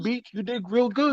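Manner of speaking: high, soft mock praise; high teasing praise.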